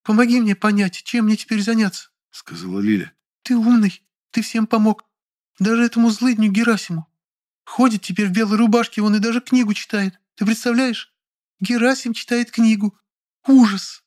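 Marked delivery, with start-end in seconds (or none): 0.0-2.1 high female character voice, whiny; Lilya, petulant. A narrator's reading. Lilya pleading with the narrator, high and petulant. 3.4-14.0 high female character voice, whiny; Lilya, petulant. A narrator's reading. Lilya pleading with the narrator, high and petulant.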